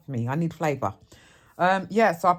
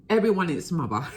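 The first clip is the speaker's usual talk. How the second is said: laughing; 5 semitones higher, 4 dB louder, faster than usual. Real, not acted. Laughs at late-night chatter.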